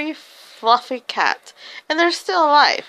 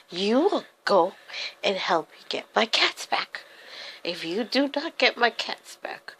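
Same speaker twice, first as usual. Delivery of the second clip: put-on threatening old witch; 2 semitones higher than usual. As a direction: play a wicked cat lady threatening children. Old lady threatening captured children.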